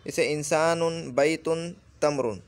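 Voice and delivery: इंसानुन, बैतुन, तमरुन with a clear final un; Arabic recitation. Shown as a demonstration. Teacher listing Arabic words for the class, careful Arabic. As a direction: read each word out slowly. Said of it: "सीधे से उल्टे चलेंगे".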